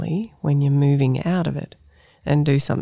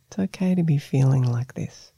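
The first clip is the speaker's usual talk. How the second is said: soothing, comforting tone. Shown as a demonstration. Meditation teacher models the phrase for the listener, gently soothing. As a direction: comfort a small child or a pet with it. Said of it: "tone that you would use comforting a small child".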